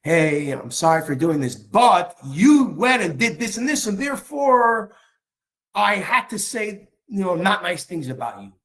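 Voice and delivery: hammed-up self-justifying excuse, slowing as it climbs; insincere apology. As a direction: imitate someone justifying themselves while saying sorry. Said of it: "I used to hear a lot of people apologizing".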